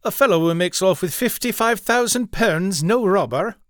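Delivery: a gambler balks that a thief is no robber, incredulous. Acted. Incredulous reply about the robbery.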